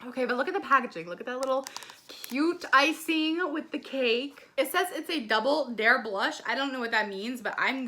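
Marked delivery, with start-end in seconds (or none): none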